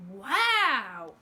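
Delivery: loud, amazed exclamation; amazed yell. Acted. Abu yelling in amazement at the flip. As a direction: yell it in awe. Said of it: "Abu yelled".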